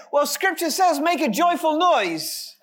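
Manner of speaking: overly polite reassurance. Retold or imitated. Quoting polite churchgoers consoling a bad singer, high mock-sweet. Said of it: "try to be so polite and redemptive to me and say".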